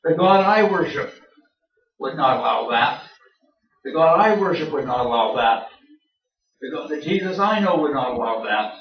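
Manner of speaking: fervent conviction. Retold or imitated. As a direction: insist it like a believer sure of his faith. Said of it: "people say with fervor, confidence, and absolute sincerity".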